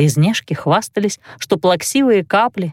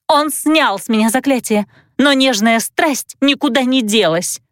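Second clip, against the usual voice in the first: heartbroken; 5 semitones higher than usual. Acted. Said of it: "с надрывом продолжила".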